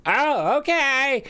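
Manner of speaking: high, singsong granny voice; old lady. Acted. Old lady Nana agreeing to help, old-lady voice.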